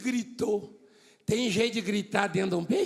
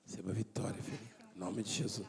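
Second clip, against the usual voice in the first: quiet blessing; 12 semitones lower, 13 dB quieter, faster than usual. Real, not acted. Blessing a person aside.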